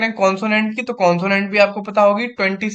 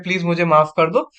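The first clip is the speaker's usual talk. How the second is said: tender apology; 3 semitones lower than usual. Shown as a demonstration. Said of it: "एक प्यार से बोलते हैं".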